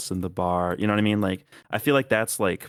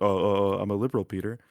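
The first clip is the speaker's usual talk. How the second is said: animal sidekick voice; faster than usual. Retold or imitated. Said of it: "some fucking animal companion".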